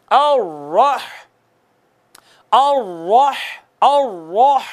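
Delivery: अर्रह with a thick, full रा, lips rounded; heavy ra. Shown as a demonstration. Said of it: "रा मोटी पड़ी जाएगी". (अर्रह में मोटी रा, होंठ गोल)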